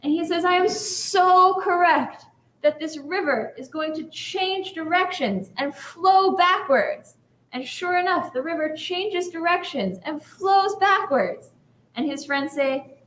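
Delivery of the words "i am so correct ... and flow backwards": insistent rabbi. Retold or imitated. Lone rabbi insists again.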